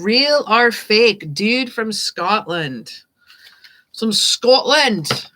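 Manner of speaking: slow, hammed-up fake Scottish; amateur Scottish accent, stretched vowels; bad Scottish accent. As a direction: draw the words out in a mock Scottish accent. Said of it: "That's the worst Scottish accent ever".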